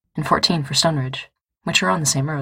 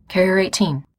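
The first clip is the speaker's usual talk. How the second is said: sharp; 3 semitones higher than usual. Acted. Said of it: "Becca says sharply".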